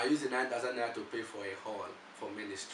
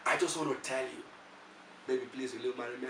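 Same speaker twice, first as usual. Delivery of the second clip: tender proposal; faster than usual. Retold or imitated. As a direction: voice drops to gentle sincerity. Switches from mock anger to proposing.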